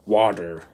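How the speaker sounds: "water" said "wadder" with a D sound; American flap D. Shown as a demonstration. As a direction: soften the T in "water" into a D. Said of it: "where does the D come from".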